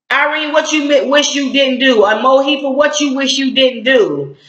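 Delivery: high, pointed demand at Irene and Mohifa; indignant call-out. Real, not acted. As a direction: challenge them to answer. Calling out the two girls.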